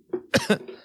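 dry unvoiced cough. Real, not acted. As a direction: cough out an inhaled bug. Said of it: "I inhaled a, s-, uh, like, a bug".

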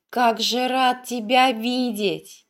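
slow, savoring each word. A narrator's reading. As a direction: repeat it slowly, glowing with joy. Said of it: "Счастливо улыбаясь, повторял юноша". (радостно и медленно)

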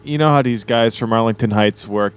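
slow, low mock Chicago drawl on konnichiwa and arigato; Chicago accent. Doing the requested Chicago accent for friends, slow and low. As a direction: lean into a thick Chicago accent. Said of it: "in a Chicago accent".

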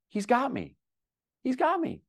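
high-pitched, heartfelt wonder; moved conviction. Retold or imitated. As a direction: let the voice rise with awed certainty. Moved by certainty God has him.

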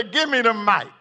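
mild eager request; Peter asks for the mic. Acted. Peter asks for the mic, mildly eager. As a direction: reach for the mic. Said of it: "I see Peter say".

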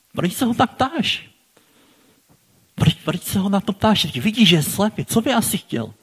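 high, sharply questioning objection; indignant. Pretend. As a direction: challenge him, half offended. Challenging Jesus's question.

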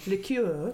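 liqueur said the French way, lee-KYUR; foreign liqueur. Shown as a demonstration. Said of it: "you say one in a foreign way".

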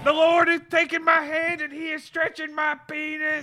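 preacher voice. Pretend. Preacher testimony parody.

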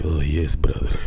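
put-on whispered sinister Arab accent. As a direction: hiss it like a villain with an Arab accent. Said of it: "a sinister Arab accent".

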